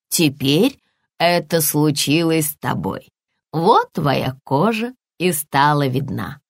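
lightly voiced, slow mother bear; measured, reassuring parent character. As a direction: explain unhurriedly to a little cub. Mother bear explains to cub.

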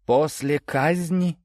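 high, drawn-out eager question; lively. A narrator's reading. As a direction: ask it back keenly, pitch lifted. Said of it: "живо переспросила Настя".

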